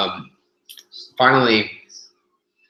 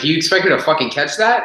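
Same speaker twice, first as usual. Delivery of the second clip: higher, loud disbelief; retelling his comeback to the gym guy, incredulous; incredulous retort; 7 semitones higher, 4 dB louder than usual. Retold or imitated. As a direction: fire it back in mock outrage. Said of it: "I'm like".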